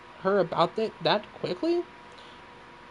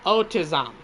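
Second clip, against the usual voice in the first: weak robot voice, barely changed; half-hearted robot monotone. Acted. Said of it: "Wait, that's bad".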